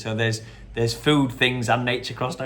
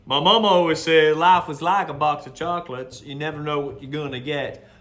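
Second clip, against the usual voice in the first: Forrest Gump impression; 3 dB louder than usual. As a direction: say it with a hint of earnest innocence. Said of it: "Forrest Gump".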